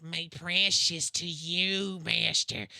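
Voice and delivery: slow, lightly voiced creeping Gollum. Fans offering him the ring, slow mock Gollum. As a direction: drawl it out like a fawning Gollum. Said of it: "be like Gollum".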